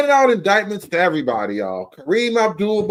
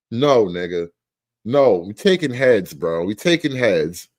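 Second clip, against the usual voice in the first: deep mock threat; 10 semitones lower than usual. Mock declaring violence.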